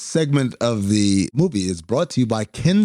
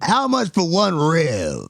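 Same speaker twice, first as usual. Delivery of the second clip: slow, drawn-out comedian's punchline; Chris Rock stand-up punchline; 2 semitones higher, slower than usual. Retold or imitated. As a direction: stretch it out like a stand-up routine. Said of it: "That is every punchline of every stand-up".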